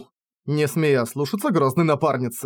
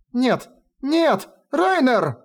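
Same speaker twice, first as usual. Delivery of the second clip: desperate scream; 10 semitones higher, much slower than usual. Acted. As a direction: cry out for him in horror. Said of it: "Страшно закричала Милк".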